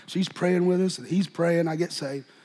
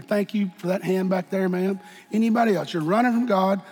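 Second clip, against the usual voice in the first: altar call. Acted. Preacher gently inviting the congregation to the altar. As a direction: coax them gently down to the altar.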